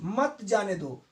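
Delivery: "मत जाने दो" run together as one phrase, falling at the end; group "मत" with "जाने दो"; phrase after comma pause. Shown as a demonstration. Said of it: "comma लगा है".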